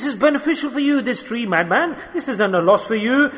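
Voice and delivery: high-pitched sales pitch; sugarcoated persuasion. Acted. Shaitan tempts man with the tree, in a high coaxing voice. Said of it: "he sugarcoats it and presents it to you nicely".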